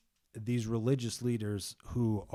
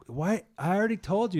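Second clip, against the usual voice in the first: higher, louder exasperated retort; mock annoyed; 9 semitones higher, 5 dB louder, faster than usual. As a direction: act out a man fed up with being asked.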